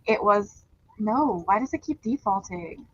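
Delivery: muffled. Real, not acted. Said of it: "you still sound like you're in a can".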